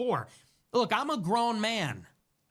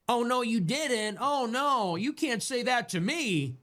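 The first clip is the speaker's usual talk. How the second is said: wag a finger with your voice, mocking; mocking impression; 3 semitones higher than usual. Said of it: "Going around wagging her finger".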